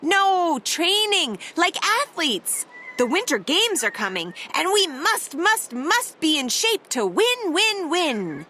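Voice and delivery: lightly voiced eager team, correcting Tacky; a hint of bossy sporty penguins; brisk bossy penguins.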